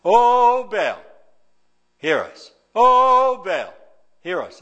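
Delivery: high, loud wailing call, dropping away on hear us; frenzied prophets chanting; crying to Baal. Acted. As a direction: wail to a silent god. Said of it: "and crying from morning to noon".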